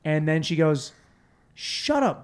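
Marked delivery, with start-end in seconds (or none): 1.5-2.2 high-pitched mock retort; imitating an annoyed friend; retold snap. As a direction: cut them off, voice jumping high.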